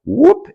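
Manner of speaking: high rising "whoop"; whoop sound effect. Retold or imitated. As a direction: let out a quick whoop for the twisting motion. Imitates the twist's corkscrew motion.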